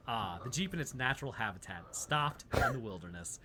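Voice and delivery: low, hushed wildlife narrator; nature documentary. Pretend. Nature documentary joke about jeep.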